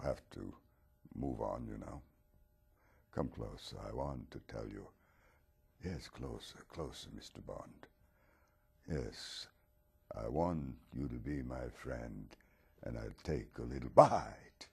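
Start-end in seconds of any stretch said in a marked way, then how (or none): 3.2-14.7 luring vampire. Acted. Dracula lures Bond closer.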